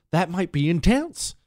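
high, hoarse, strained whisper; fading voice, pushed through a rasp; raspy whisper. Real, not acted. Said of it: "a very loud whisper".

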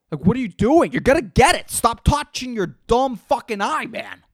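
loud mock reprimand; exasperated scold. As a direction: tell off a stranger who won't stop. Scolding imagined eye scratcher.

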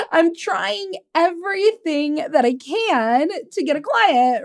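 mildly exasperated retold client, stretching the words out; frustrated client. Client insisting to her coach she is trying, mildly frustrated. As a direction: play her frustration, slow and emphatic. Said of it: "she was so frustrated with me".

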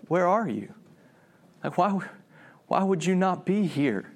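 sadness in voice. Acted. God looking for the one he walked with, saddened. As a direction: ask it with hurt, pausing between questions. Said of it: "there's a sadness in his voice".

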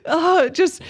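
breathless and halting, heart racing; real excitement. Real, not acted. To co-host after the rant, real thrilled excitement. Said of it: "my heart is racing".

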